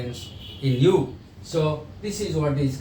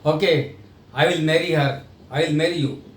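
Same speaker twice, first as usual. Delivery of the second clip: reluctant yes. Shown as a demonstration. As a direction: agree as if forced into it. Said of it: "the first sentence when you say, the meaning is like you don't want to marry".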